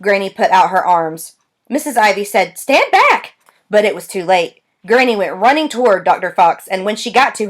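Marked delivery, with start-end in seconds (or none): 2.6-3.3 high, louder order to stand back; sharp command. A narrator's reading. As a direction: receptionist barks a warning. Receptionist orders granny away.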